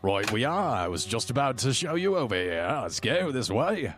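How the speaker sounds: broad Aussie gnome guide, lilting upward; Australian accent. Acted. Jim Jar covers for being corrected, in an Australian accent. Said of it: "Do they have Australian accents".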